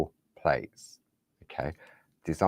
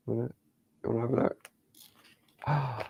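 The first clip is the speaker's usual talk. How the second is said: whisper; 5 semitones higher, 7 dB quieter than usual. Real, not acted. Presenter teasing viewers with a hidden product, whispered. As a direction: hush it like you're sharing a secret.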